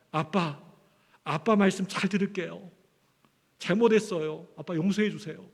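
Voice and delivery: put-on a sorry child asking dad's forgiveness; pleading child apology. Son falling into his father's arms, softly begging forgiveness. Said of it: "제 품에 안겨들기를 원했던".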